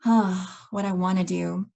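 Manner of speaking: reenacted sigh before answering; deep-breath sigh. Coach answering a friend after a deep breath, retold sigh. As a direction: let a breath out, then answer at ease. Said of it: "I took in a deep breath".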